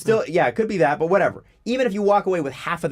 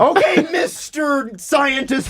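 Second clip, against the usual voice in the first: mocking sarcasm; 7 semitones higher, slower than usual. Mocking the ad customer.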